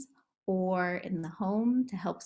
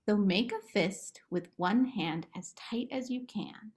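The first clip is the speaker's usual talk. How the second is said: whispered instruction. Acted. Therapist whispering to kids in the game, hushed. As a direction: breathe it out as a whisper. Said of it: "whispered instruction in relaxation game".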